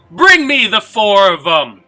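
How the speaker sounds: loud, ringing, carrying call-out. Voicing an unseen voice heard after a chuckling sound: calling out. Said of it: "that voice calls out".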